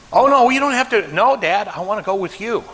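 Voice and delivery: a hint of a stubborn dad brushing it off; high mock protest. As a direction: toss it off like a stubborn old father. Dad voiced in a story.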